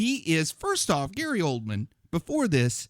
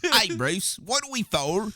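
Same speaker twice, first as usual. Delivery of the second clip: bad Caine impression; 5 semitones higher than usual. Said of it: "That's even worse".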